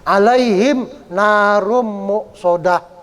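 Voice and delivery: "Alaihim" unstretched, running on into "narum muqsadah"; measured recitation with the "ai" of "Alaihim" kept short; short vowel mid-phrase. Shown as a demonstration. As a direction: slowly recite "Alaihim narum muqsadah" without holding "lai". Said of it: "kalau di tengah-tengah kalimat nggak boleh".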